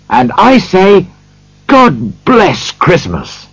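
sincere, eager nephew; earnest appeal. A narrator's reading. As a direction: defend it with earnest feeling, voice lifted. Nephew earnestly defends Christmas.

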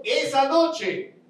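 slow, drawn-out answer; slow emphasis. Shown as a demonstration. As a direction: lean on the words slowly. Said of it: "¿Cuándo?".

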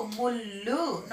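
slow ముళ్ళు with the doubled ళ్ళ pressed hard; stressed double consonant. Shown as a demonstration. Teacher to pupils, pressing the doubled letter slowly. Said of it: "నొక్కి పలకాలి కదా".

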